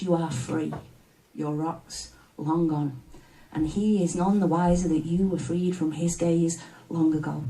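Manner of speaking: measured, intimate spoken-word delivery; poem recitation. Acted.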